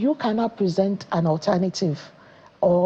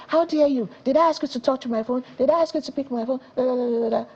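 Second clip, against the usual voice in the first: higher, rapid-fire mock scolding; mock parental shouting; 4 semitones higher, faster than usual. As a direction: act out a parent telling off a child, without really shouting. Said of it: "was to shout and say".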